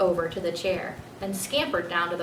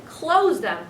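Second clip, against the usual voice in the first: firm; 6 semitones higher, 5 dB louder than usual. Acted. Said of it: "his father repeated firmly".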